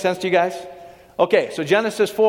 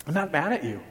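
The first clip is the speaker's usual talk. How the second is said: gentle reassurance. Retold or imitated. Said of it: "here's what he's saying".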